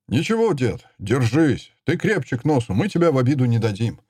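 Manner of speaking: put-on buck the old man up brightly; cheerful call. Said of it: "крикнул я бодро". (бодро, ободряюще)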